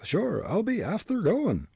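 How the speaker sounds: high Irish brogue; hurried assent in a scared brogue; frightened cry. A narrator's reading. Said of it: "Pat cried".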